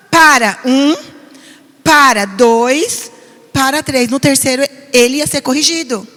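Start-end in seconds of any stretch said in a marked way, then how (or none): 0.1-4.1 "Para, um, para, dois, para, três" counted out firmly, each "para" punched; steady warning count with a slow pause on "dois"; firm countdown. Retold or imitated. Pastor showing how she counted to stop her son, firm countdown. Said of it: "Desde pequeno eu só falava".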